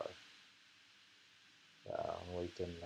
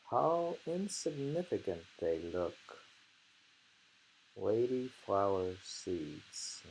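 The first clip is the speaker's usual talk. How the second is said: poem recitation. Acted. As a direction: read each line as a poem. Reciting haiku aloud.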